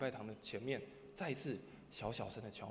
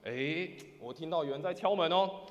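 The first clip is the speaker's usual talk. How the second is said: somewhat louder; 3 semitones higher, 8 dB louder than usual. Retold or imitated. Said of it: "用大一点的声音说什么".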